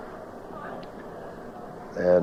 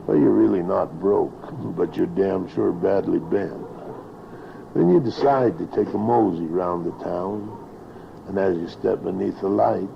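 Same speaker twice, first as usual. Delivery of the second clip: rhythmic rhyming recitation, lightly performed; cowboy poetry. Acted. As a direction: recite it like a tale by the campfire.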